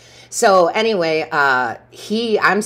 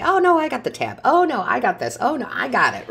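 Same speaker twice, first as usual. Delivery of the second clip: much higher, sing-song imitation of herself insisting; mock eager refusal; 9 semitones higher than usual. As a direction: mimic your old self grabbing the tab, voice pitched up. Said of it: "I'd be like".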